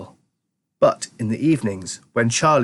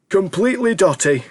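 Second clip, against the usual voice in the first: put-on amused old grandpa; 8 semitones higher than usual. A narrator's reading. Grandpa George scoffing to Charlie, high old voice. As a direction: dismiss it with an old man's chuckle.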